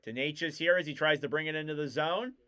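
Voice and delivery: hockey call that peaks on the shot, then settles; live play-by-play. Real, not acted. Commentator resumes the first period after the tribute, live play-by-play. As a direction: track each pass and punch up the shot.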